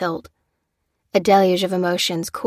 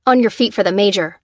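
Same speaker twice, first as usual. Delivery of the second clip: bark; 5 dB louder than usual. Acted. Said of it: "barked the lieutenant".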